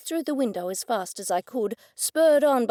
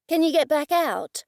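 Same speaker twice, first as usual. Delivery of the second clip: louder voice; 6 semitones higher, 4 dB louder than usual. Acted. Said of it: "In a louder voice I said".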